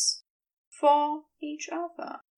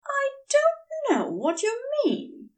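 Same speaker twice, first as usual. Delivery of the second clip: coldly. A narrator's reading. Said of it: "Aziraphale said coldly".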